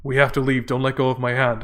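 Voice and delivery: imitating a deadpan film actor; deadpan dad. Father leading his daughter away from danger, deadpan. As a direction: deliver the warning with no urgency at all. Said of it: "most deadpan acting I've ever seen".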